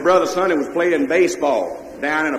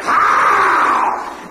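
sudden high unvoiced yelp; a yelp as the horse lunges; startled yell; 9 semitones higher, 5 dB louder than usual. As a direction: holler it out in a scare. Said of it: "he took that line and said".

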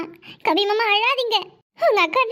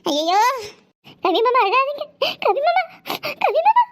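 calling out; 3 semitones higher than usual. Acted. Calling out, building. (மாமாவைக் கூப்பிட்டு உரத்த குரலில் கத்தல்)

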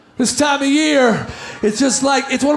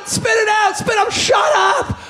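higher, impatient Santa snapping; 5 semitones higher than usual. Retold or imitated. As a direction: hurry the kid up, higher. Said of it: "He's going".

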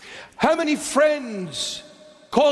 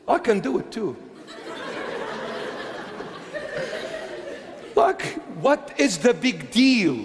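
laughing scorn; 4 dB quieter than usual. Real, not acted. Laughing at the fans.

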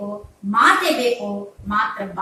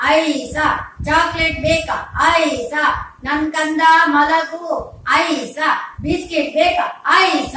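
loud, higher work-gang call and response; lineman's heave-ho lullaby; 4 semitones higher, 7 dB louder, slower than usual. Acted. Lineman father soothes baby, loud rhythmic work chant. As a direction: hush a baby in pole-hoisting calls. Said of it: "ಆಗ ಅವನು ಹೇಳ್ತಾನಂತೆ".

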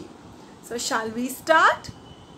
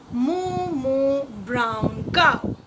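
slow rhyme title; slower than usual. Shown as a demonstration. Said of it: "we are going to learn a new rhyme".

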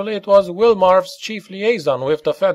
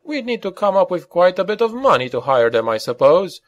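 higher-pitched, mildly smug challenge; pitched-up, faintly smug young-gun retort; trace of smugness; 8 semitones higher than usual. A narrator's reading. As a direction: needle him with a touch of smugness. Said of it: "with just a trace of smugness".

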